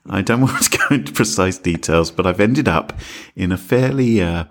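hushed voice in echoey room; whisper shout. Real, not acted. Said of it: "He's using his whisper shout".

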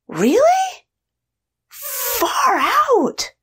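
very high, awed disbelief; wide-eyed amazement. Retold or imitated. Young indulger amazed by the grown-up's house, awestruck. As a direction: squeak it up high, then stretch out the awe.

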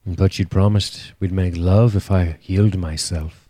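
put-on voice of a pleading knight; Jorah Mormont. Co-host keeps up the teasing impression, pleading as the knight. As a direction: plead in character as the lovelorn knight. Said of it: "Don't talk in the Jorah Mormont voice".

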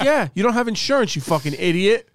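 high, sharp, scornful judge voice; mock scolding judge. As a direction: scold him like Judge Judy. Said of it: "She's like".

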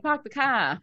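Boston accent, "park" as "pack" with no R. Shown as a demonstration. Answering the Jersey accent with a mild Boston one. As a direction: drop the R in "park" and "car" the Boston way. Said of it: "sounds more like Boston".

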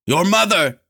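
high-pitched desperate cry; scream. A narrator's reading. Lanlo screams out before Lorn lets go, high scream. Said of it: "he screamed out".

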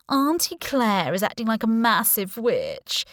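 whiny ten-year-old, mocking; whiny brat voice. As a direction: whine it like a spoiled kid. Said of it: "He put on a whiny voice like I was a ten-year-old brat".

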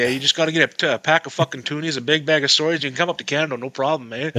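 a light put-on Canadian accent with eh tags. Teasing his buddy in a hammed-up Canadian accent. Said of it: "talking to a Canadian's real easy".

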